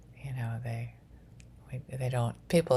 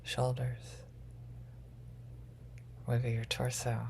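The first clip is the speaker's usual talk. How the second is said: guided grounding meditation; 2 semitones lower than usual. Acted.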